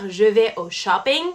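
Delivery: English-accented "shopping" in a French sentence. Shown as a demonstration. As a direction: say "shopping" as an English word, English pronunciation. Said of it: "on ne va pas dire".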